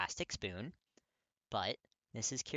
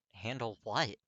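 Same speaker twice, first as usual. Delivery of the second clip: a sharp, louder demand; 7 dB louder, slower than usual. A narrator's reading. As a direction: snap the question back at him. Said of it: "Katsuki demands".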